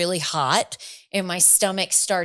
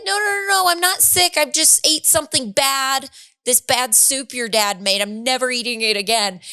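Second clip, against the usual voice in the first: high reassuring mom; 5 semitones higher than usual. Retold or imitated. Reassuring the crying kids.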